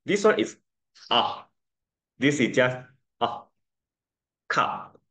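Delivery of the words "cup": "Cup" whispered with a short ah vowel. Shown as a demonstration. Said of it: "You don't say cup".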